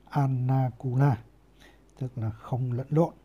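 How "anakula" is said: Anakula said slowly, with a long held n in the middle; careful Pali reading. Shown as a demonstration. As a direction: spell out Anakula slowly, syllable by syllable, the n lengthened. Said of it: "đọc là". (đọc chậm Anakula, kéo dài âm n)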